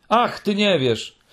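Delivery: high, pleading character voice; plaintive outpouring. A narrator's reading. Muminek pours out loneliness to Mi.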